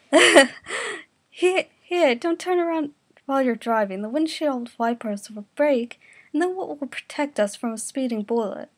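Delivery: loud, high, urgent plea; ditzy passenger panicking at the driver; frantic plea. Acted. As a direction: beg the driver not to turn. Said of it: "Mikuru said".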